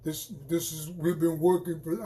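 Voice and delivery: a playful commander rallying the team; put-on rally voice. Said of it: "I don't know why I had to make that voice".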